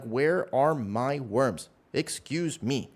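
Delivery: mock indignant lizard demanding worms; lightly voiced grumpy lizard; voicing the lizard. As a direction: play the pet huffily asking for food. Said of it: "He's like".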